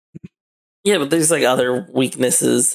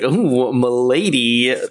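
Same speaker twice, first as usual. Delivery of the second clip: slow, smug fedora-tipping voice; nasal smug neckbeard; slower than usual. Pretend. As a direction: simper like a neckbeard knight. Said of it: "Where it's just like".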